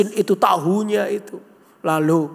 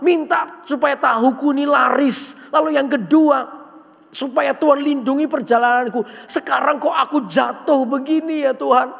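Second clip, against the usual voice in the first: higher-pitched mock complaint to God; hammed-up indignant griping in a raised pitch; grumbling at God; 6 semitones higher than usual. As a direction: act out an aggrieved, pleading grumble. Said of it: "Dia ngomel dengan Tuhan".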